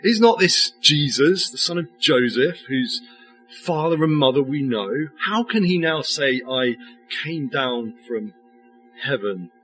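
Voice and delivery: lightly sneering, mocking crowd voice; a hint of scornful disbelief. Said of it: "you can almost hear the sneer in their tone".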